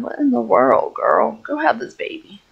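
ordinary talk, nothing marked

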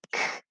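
"K-an" with a lone k, a gap, then drawn-out an; sounding out. Shown as a demonstration. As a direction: tap out "K-an" sound by sound. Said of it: "finger tap the sounds in each syllable".

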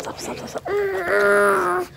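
high, slow, laughing pleas to stop; laughing protest. Real, not acted. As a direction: giggle while begging to stop. Baby grabbing at her.

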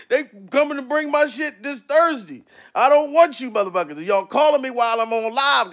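ordinary delivery

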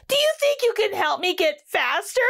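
asking through drying tears; hopeful kid Rudy. Acted. Rudy asks the tomato, high and hopeful.

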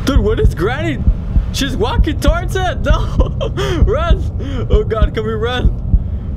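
loud, high panicked calls; frantic fleeing, yelling; being chased. Real, not acted. Granny chases him down hallway.

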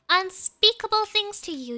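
loud, high-pitched play threat; worked-up, theatrical threatening; mock threat. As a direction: hammer out UNSPEAKABLE as a warning. Threatening the game opponent.

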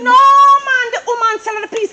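loud, tearful outburst; crying out. Acted. Wife erupts about the land seller.

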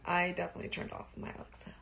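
fast nervous whisper; hushed so Alexa won't hear. Real, not acted. Whispering to viewers about her Alexa.

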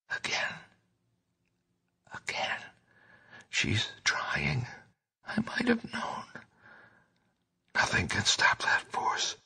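exhausted, terrified whisper, breaking into sobs; feeble whisper. Acted. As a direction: barely breathe the words into a friend's ear. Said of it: "to catch the feeble words".

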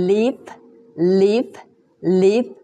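"leave" as an isolated syllable starting on L; short rising "leave", repeated as a drill; clear L sound. Shown as a demonstration. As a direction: model "leave" with a careful initial L. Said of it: "L, L".

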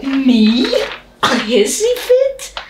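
high, slow outraged squeak; shocked and offended, pitch way up; indignant disbelief. Acted. Outraged at accusation.

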